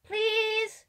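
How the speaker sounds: put-on high, pleading kid voice; gush, then beg like a small child; excited little child. Player voices eager begging child.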